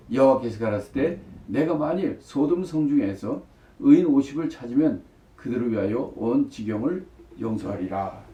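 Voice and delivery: measured, projected Bible reading; scripture reading. Acted. Preacher reads the passage to the congregation, projected scripture reading.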